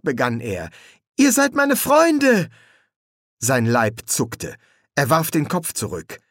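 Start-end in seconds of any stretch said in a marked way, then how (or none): 1.2-2.5 slow, high, anguished cry; desperate plea. A narrator's reading. Boy begs frightened friends to believe him, anguished. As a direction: plead loudly, drawing the words out.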